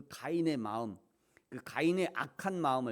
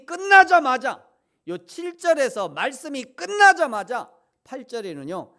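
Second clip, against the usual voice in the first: 끝나자마자 punched much higher and louder; emphatic stress; 12 semitones higher, 19 dB louder than usual. Acted. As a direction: hit 끝나자마자 hard and high. Emphatic sermon climax. (끝나자마자를 높고 세게 강조)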